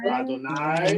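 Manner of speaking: clear, careful model word for the class to repeat; teacher leading a repeat-after-me recitation. Shown as a demonstration. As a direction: say Shema cleanly as a model. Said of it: "everyone repeat after me".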